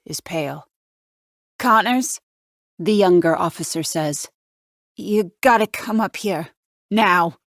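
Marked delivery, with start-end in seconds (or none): 1.6-2.2 high, loud call, rising at the end; urgent call from the top of the stairs. A narrator's reading. Younger officer calls from stairs. 5.0-7.4 urgent. A narrator's reading. Shaken young officer urges detective.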